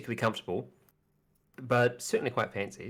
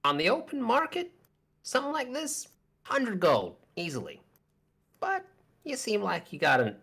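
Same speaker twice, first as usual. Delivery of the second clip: sly shopkeeper; 2 semitones higher than usual. Acted. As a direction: coax the buyer, pitched up. Shopkeeper bargaining in voice.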